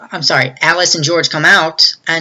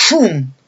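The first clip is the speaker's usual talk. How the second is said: imitated whoosh. Table and chairs go flying.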